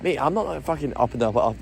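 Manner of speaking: put-on Glasgow accent jumping up then down; jumpy Glasgow accent. Glaswegian protesting to a mate, jumpy Glasgow accent. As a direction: start high on Mate, then drop. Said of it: "Glasgow's like".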